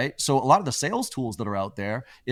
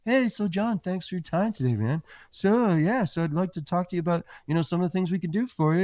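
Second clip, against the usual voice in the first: high, chirpy salesman voice; mock sales pitch, pitched up; mocking a sales rep; 8 semitones higher than usual. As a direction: parody an eager young rep. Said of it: "the A E did the".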